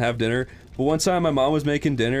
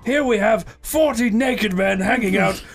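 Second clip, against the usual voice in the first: slow, higher-pitched mock show host; TV presenter; 5 semitones higher than usual. Presenting forty men wrestling to viewers, mock TV host. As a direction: announce it grandly, stretching the words.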